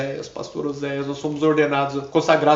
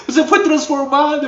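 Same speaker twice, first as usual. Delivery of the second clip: much higher, emphatic echo; 12 semitones higher, 5 dB louder than usual. Retold or imitated. Preacher echoing the girl's words triumphantly, much higher. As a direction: repeat it as triumphant proof. O diabo tendo que reconhecer.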